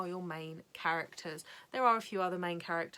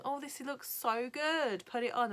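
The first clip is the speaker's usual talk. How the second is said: eager, higher-pitched mock enthusiasm; excited anticipation; 6 semitones higher than usual. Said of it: "I remember watching it going".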